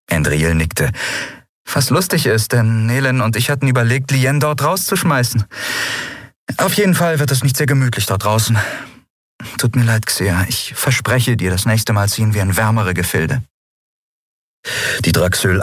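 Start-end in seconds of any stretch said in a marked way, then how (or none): 1.7-13.4 higher-pitched heroine voice, conversational; captain reassuring her crew. Acted. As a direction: speak lightly in a lifted character voice. Captain talks lightly to her crew.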